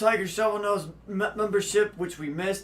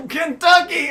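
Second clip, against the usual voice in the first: shouting; 10 semitones higher, 12 dB louder than usual. Real, not acted. Shouting the correct answer while laughing.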